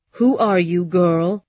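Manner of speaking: put-on a stern, loud old woman on her sickbed; sick old aunt. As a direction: voice the dying aunt demanding. Sick aunt voiced in story.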